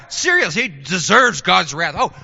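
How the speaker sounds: mildly hammed-up eager approval, pitch climbing; cheering onlookers. People of Israel applauding judgement on their neighbours, lightly acted glee. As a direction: agree gleefully as an approving crowd would. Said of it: "you can just hear the people in Israel going".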